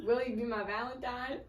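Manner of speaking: light mock country accent through a laugh. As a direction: read the note out with a hint of country accent, amused. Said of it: "like, a country accent".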